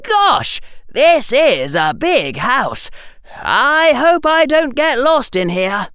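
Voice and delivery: put-on high, eager young boy, looking around in awe; a boy marveling at a big house; excited boy.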